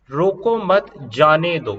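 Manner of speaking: slow, with a break between मत and जाने दो; group मत with रोको, not with जाने; pause after मत. Shown as a demonstration. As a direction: say रोको मत as one phrase, pause, then जाने दो. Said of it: "रोको मत के बाद कोमा लगाया है".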